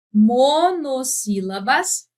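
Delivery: "monossílabas" bem devagar, separando as sílabas; sílaba por sílaba. Shown as a demonstration. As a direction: escande "monossílabas" como numa aula. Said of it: "poder cantar a palavra". ("monossílabas" dito pausadamente)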